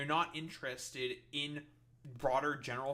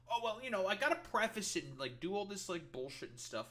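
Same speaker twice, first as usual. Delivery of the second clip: higher, whiny parody of someone hedging; mock the hedger with a higher, simpering voice that settles back; mocking sniveling hedger; 5 semitones higher than usual. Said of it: "motherfuckers like this saying".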